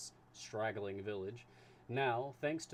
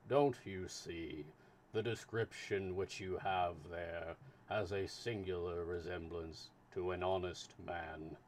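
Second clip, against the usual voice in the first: lightly voiced slow, steady official; unhurried, measured consul; 3 semitones lower, slower than usual.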